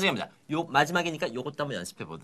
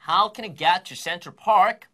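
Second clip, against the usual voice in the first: very slow and loud, word by word; slow demo sentence for repeating; slow, loud model read; 3 semitones higher, 5 dB louder, much slower than usual. Shown as a demonstration. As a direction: spell it out loud for the class to repeat. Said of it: "큰 소리로 같이 따라해보도록".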